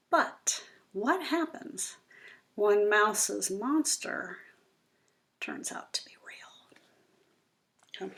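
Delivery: slow hushed suspense trailing into a whisper; suspenseful hush. Acted. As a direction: build suspense for the little listeners. Teasing the book's big question.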